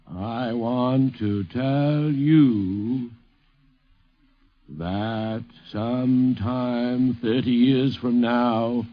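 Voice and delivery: very slow, drawn-out mock Sandburg; slow, deliberate Sandburg imitation; imitating Carl Sandburg. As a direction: stretch every phrase like a grand old poet. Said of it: "went like this".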